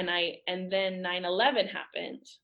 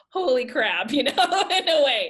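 louder, higher, laughing through the words; 7 semitones higher, 9 dB louder than usual. Real, not acted. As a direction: laugh it out as you swear. Laughing at her past panic.

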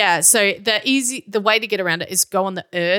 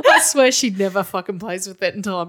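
laughing. Real, not acted. Cat finds ball while recording.

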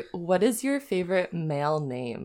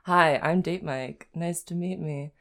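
Date Mike impression; 4 dB louder than usual. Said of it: "The Office".

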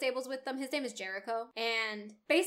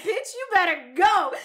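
mock urgent warning; 6 semitones higher, 9 dB louder than usual. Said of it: "He's like".

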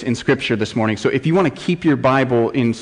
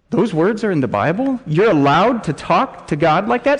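mock-doubtful churchgoer, pitched up; puzzled objection, lifting at the end; incredulous questioning; 5 semitones higher than usual. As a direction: question it in higher-voiced disbelief. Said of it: "some of you are questioning".

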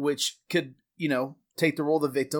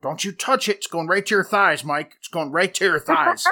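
lightly voiced scolding parent, a bit raised; a touch of bossy parent, louder and insistent; 3 semitones higher, 4 dB louder than usual. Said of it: "my parent voice rises up".

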